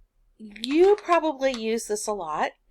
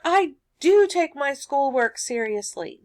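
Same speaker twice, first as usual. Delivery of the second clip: loud, raised stress on DO; emphatic DO; 5 semitones higher, 4 dB louder than usual. Acted. Student insisting to mom, emphatic stress on DO. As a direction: punch "do" to insist. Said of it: "That's emphatic".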